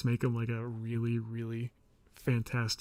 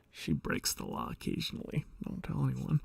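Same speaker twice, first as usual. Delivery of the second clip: whisper; 4 dB quieter than usual. A narrator's reading. Secret aside, "Don't tell anyone.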